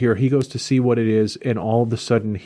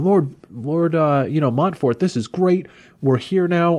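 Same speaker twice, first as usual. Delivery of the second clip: put-on higher-pitched eager young squire; raised pitch, playfully keen; mild mock eagerness; 5 semitones higher than usual. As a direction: lightly act out an enthusiastic greeting. Eager squire greets his lord.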